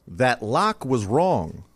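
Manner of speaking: slow, weighty narration with long stressed words; dramatic documentary read. Shown as a demonstration. Showing the intern the read he wanted, slow dramatic narration. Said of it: "what I was looking for was".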